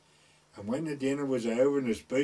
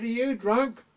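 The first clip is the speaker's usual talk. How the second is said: accusing question; 9 semitones higher, 5 dB louder, slower than usual. Retold or imitated. Woman accuses.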